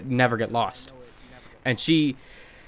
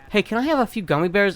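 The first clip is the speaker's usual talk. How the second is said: mock whiny coworker; 7 semitones higher than usual. Coworker asking for gummies.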